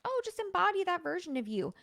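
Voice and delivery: high, quick, breezy coach parody; mock manifestation coach. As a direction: toss it off like a glib coach. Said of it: "business coaches and manifestation coaches".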